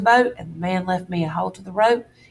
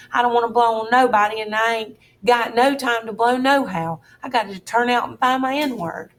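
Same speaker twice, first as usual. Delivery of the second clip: whimpering; 4 semitones higher than usual. Acted. Huck pleading with the duke, whimpering. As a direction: whimper it out like a scared boy. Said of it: "I went on a whimpering".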